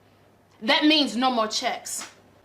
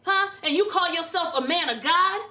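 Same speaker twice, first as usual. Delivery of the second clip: indignant, higher-pitched challenge; angry confrontation; 4 semitones higher than usual. Acted. Wife confronting husband over his affairs, angry and incredulous. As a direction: fire accusing questions at a cheat.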